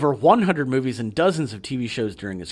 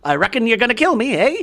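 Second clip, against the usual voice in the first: mock Cockney; 8 semitones higher, 5 dB louder than usual. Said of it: "Calling him Reckon".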